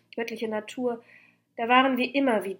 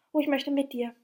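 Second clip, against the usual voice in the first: higher-pitched, mildly eager call; 5 semitones higher, 4 dB louder than usual. A narrator's reading. Diotima calling to her beloved, called out. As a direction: call over with lifted voice. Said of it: "rief Diotima mir zu".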